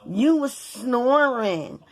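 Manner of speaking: slow, drawn-out retold justification; drawled mock excuse on "snoring"; imitating his excuse. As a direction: stretch SNORING out long, mimicking him. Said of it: "So he was like".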